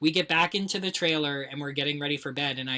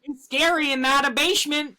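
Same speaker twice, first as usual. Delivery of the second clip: much higher, louder hammed-up spook; mock spooky voice; 11 semitones higher, 6 dB louder than usual. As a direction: ham up a scary basement. Spooky joke voice, laughing.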